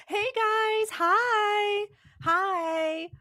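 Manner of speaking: high, giddy, goofy greetings; bouncing hellos to the chat like a silly little goose. Real, not acted. Greeting the stream chat, high goofy silly voice. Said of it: "feeling like a dang silly little goose".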